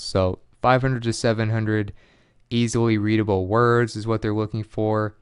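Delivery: normal talking voice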